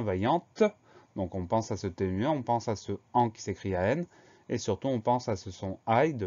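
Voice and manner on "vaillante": "vaillante" with a crisp T released at the end; sounded final T. Shown as a demonstration. Teacher giving the feminine of the adjective, sounded final T. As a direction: let the T of "vaillante" be heard. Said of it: "un T qu'on va retrouver au féminin".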